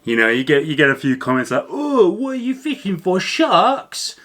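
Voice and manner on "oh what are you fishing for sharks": high-pitched mock Barnsley accent. Facebook commenter scoffing at thick pike braid, high mock Barnsley accent. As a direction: jeer like a scoffing Barnsley angler in a much higher voice. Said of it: "That's my Barnsley accent".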